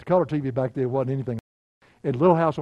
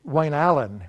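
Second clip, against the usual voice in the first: slower, louder stern full name; mother's mad call; 2 semitones higher, 6 dB louder, slower than usual. Retold or imitated. Son imitating his mother scolding him, stern. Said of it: "when she was mad".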